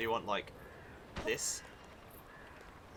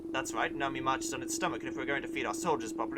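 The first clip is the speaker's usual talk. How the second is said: gruff soldier voice; 4 semitones higher, 5 dB louder than usual. Acted. Reads grumpy soldier dialogue.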